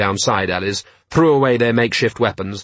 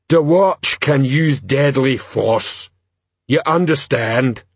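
troll; 3 semitones higher, slower than usual. Acted. Troll explains act to crowd.

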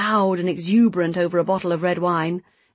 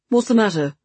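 raised voice, calling after someone; 3 semitones higher, 5 dB louder than usual. A narrator's reading. Man calling after the woman walking off, calling out. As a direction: call it out, a little louder. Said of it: "he called out after her".

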